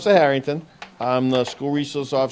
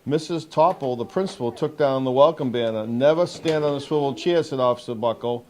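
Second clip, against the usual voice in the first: measured picture-book read-aloud with lifted key words; storybook narration for a young audience; reading to children. Acted. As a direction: read it out clearly to a group of young kids. Officer reads picture book to children.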